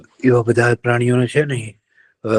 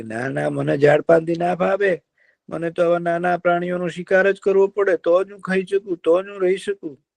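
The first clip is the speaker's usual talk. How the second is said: higher fox voice; sly fox; 6 semitones higher than usual. Acted. Fox tells the deer he must hunt, sly. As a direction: explain like a crafty fox.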